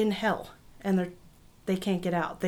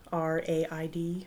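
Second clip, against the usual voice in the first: spelled out; 3 semitones lower, 6 dB quieter, slower than usual. Real, not acted. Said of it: "Baskin apparently means raid".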